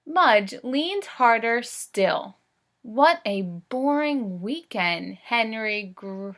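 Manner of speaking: slow storybook read-aloud; reading to children. Acted. Teacher reads Henry and Mudge to the class. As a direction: read each word clearly for young listeners.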